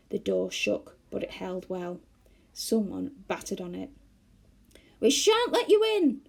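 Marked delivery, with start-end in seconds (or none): 5.0-6.2 high, loud defiant yell. A narrator's reading. Joe yelling at the white bears outside. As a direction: yell it at the door. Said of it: "yelled Joe".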